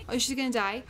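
ordinary talk, nothing marked

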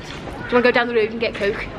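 playful demo of a Liverpool accent; Scouse party-trick voice; Scouser accent. Shown as a demonstration. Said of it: "I can do a Scouser accent".

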